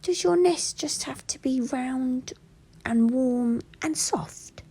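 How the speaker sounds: high, curious little bear; Little Bear's voice. A narrator's reading. Little Bear asking the owl, high and curious. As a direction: ask it like a wide-eyed small bear. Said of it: "asked Little Bear".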